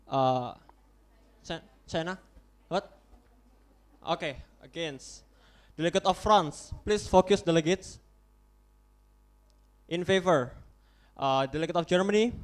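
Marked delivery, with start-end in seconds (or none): 5.8-8.0 stern call to focus. Real, not acted. Chair calls delegates to order.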